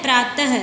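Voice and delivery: "प्रातः" ending in a breath of h; visarga pronunciation. Shown as a demonstration. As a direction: sound the visarga in "प्रातः" as a half h. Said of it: "उसका उच्चारण हम कैसे करते हैं".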